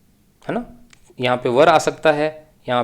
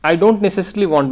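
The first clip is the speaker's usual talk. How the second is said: slow read-aloud; 4 semitones higher, 4 dB louder, much slower than usual. Shown as a demonstration. Teacher re-reads the sentence.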